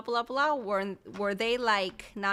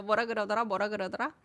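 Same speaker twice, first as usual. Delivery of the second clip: quick back-to-back repeats; quick tongue twister; much faster than usual. Shown as a demonstration. Teacher resumes the tongue twister after laughing, said quickly. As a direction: run the tongue twister off rapidly. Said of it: "ten times quickly".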